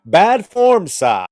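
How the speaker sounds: loud, high reprimand dropping on the last word; indignant scolding. Real, not acted. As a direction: call him out sharply and loudly. Scolding the man in a rant.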